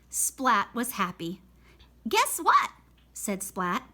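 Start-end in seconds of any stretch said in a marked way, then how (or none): 2.1-2.7 excited cat. Acted. Happy cat after show.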